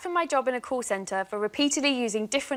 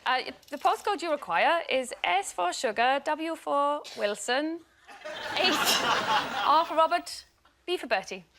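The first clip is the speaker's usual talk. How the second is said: put-on Welsh accent. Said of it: "obviously Welsh is easy".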